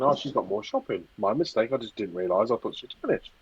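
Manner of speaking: softly voiced thinking to himself; quiet, understated retold musing; muted inner thought. Retells own polite thought.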